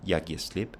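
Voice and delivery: only "slip" stressed, "Jeg giver" left unstressed. Shown as a demonstration. Teacher demonstrating Danish stress, weight only on "slip". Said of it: "you still only have stress on slip".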